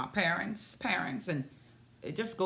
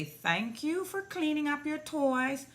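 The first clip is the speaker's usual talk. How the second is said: put-on higher-pitched praise for a small child; sweet praise; 9 semitones higher than usual. Shown as a demonstration. Showing mom what to say to her pouting child, sweet praise. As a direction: model a sing-song thank-you to a toddler.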